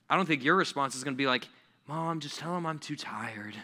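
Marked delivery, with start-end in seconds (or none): 1.9-3.5 put-on soft, drawn-out kid complaint; acted weary child, slow; mock tired whine. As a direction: whine slowly to mom. Child whining to mother.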